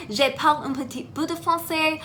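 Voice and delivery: non-fluent English-accented French. Real, not acted. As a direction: speak French like a learner, careful. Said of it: "I don't speak it fluently".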